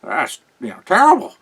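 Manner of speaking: high, loud mock dismay. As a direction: gasp it out like it's a tragedy. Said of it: "and Alfred is".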